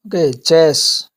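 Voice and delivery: चेस said slowly with a clear ch; slow word demo. Shown as a demonstration. Teacher modelling the ch sound, slow and clear. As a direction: draw out चेस for the class. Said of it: "इन शब्दों के अंदर क्या बोलेंगे".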